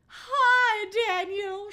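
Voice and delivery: put-on very high, loud girlish greeting; happy yelp. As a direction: yelp it joyfully into the phone. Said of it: "she happily yelped into the phone".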